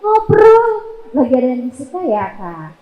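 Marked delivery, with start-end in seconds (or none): 1.1-2.7 gentle asking. Shown as a demonstration. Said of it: "tanya aja baik-baik".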